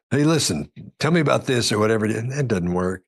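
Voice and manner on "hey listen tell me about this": a raised, formal cop grilling a suspect; stiff interrogator. Retold or imitated. Interrogator pressing a suspect, stiff and raised. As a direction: play the stiff TV interrogator, pitched up. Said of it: "if you're trying to be".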